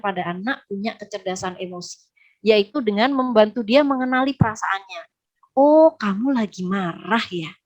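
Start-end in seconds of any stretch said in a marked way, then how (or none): 5.5-7.5 slow, soothing acknowledgement; gently name the child's feeling, unhurried; empathetic parent. Acted. Parent calmly names child's anger. (orang tua berempati, pelan menenangkan)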